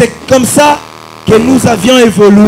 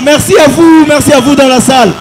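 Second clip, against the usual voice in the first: calling out thanks; 2 semitones higher, 3 dB louder than usual. Real, not acted. Thanking the audience in the hall.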